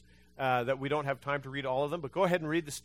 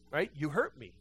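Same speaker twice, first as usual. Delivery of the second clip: ordinary delivery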